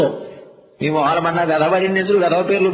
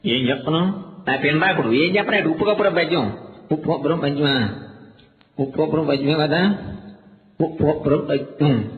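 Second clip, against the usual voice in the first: put-on clueless boy; 4 semitones lower, 3 dB quieter than usual. Dull kid mumbling reply.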